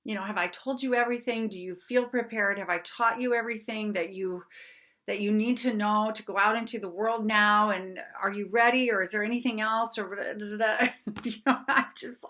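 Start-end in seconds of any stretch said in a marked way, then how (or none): 0.0-10.0 retold anxious mother, higher pitched; lightly acted worried questioning, one after another; mild panic. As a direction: rattle off anxious questions in a mildly raised pitch. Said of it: "like, almost panicking".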